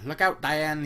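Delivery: mock yell. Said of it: "he yelled".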